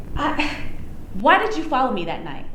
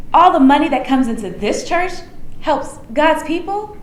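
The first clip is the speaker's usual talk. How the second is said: mocking quote; 2 semitones higher than usual. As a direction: throw her words back sarcastically. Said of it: "What does that even mean?".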